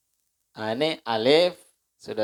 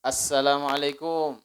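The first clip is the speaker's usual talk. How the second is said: calling at the door. Retold or imitated. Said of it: "ketika kita ngetok pintu".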